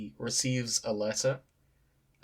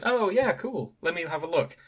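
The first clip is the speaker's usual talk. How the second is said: wife's voice; 5 semitones higher than usual. Retold or imitated. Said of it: "She's like".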